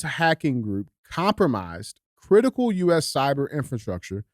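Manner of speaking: measured, deliberate article reading; slow, emphatic news copy. Acted. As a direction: read it out phrase by phrase. Reads article aloud.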